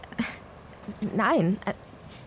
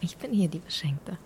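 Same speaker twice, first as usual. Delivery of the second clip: whispered. Acted. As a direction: whisper it close and grateful. Intime Umarmung unter Freundinnen. (gerührt geflüstert)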